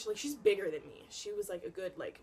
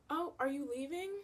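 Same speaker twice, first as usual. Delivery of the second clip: mock innocent roommate; 7 semitones higher than usual. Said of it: "she's like".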